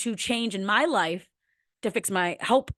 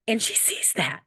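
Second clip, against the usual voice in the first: 1 choked whisper. Real, not acted. Mother emotional about her daughter.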